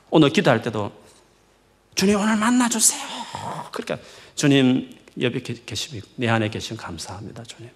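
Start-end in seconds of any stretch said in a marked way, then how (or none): 1.9-3.0 high, strained plea; put-on earnest pleading, pitched up; mock anxious prayer. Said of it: "그렇게 편안하게 기". 4.3-7.7 low, soft, easy thanks; calm, understated gratitude in a lowered voice; relaxed prayer. Shown as a demonstration. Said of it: "그렇게 편안하게 기-, 기도해요".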